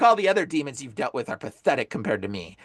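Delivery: low, boastful demon voice. Retold or imitated. Demon belittles rivals to exorcist, low boasting. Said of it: "the demon's like".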